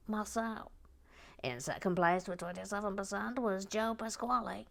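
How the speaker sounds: lightly voiced professor announcing results; Professor Lego. Announcing the final group's poll results, lightly voiced professor. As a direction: read results out in a mild professor character voice. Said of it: "Professor Lego".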